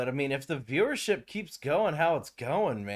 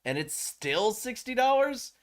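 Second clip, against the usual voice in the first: exasperated disbelief; 11 semitones higher than usual. Retold or imitated. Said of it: "I'm like".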